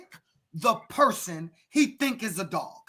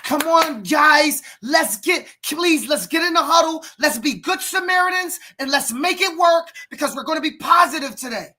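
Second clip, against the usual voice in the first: mock gentle coach; 7 semitones higher, 6 dB louder than usual. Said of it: "turning around and them saying".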